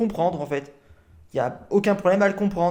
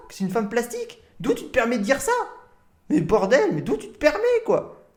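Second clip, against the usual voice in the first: indignant; 3 semitones higher than usual. Real, not acted. Streamer outraged at the man calling women plastic, indignant. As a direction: demand how he dares say it.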